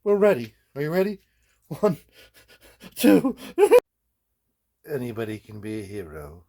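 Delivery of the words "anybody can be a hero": ringing, grand hero line with a lift at the end; heroic declaration. Acted. A guy in his workshop proclaims the hero line grandly. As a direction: proclaim it like a movie trailer. Dramatic hero vs villain lines.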